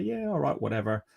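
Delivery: mock-casual shrug, starting high; playing it down. Club feigning indifference in transfer talks, playing it down. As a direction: act unbothered, as if it hardly matters. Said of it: "play it down and say".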